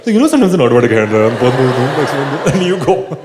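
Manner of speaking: fast, giggling through the words; rushing while cracking up; laughing explanation. Retold or imitated. Comedian explaining the joke to the doctor, giggling. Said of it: "So I told her".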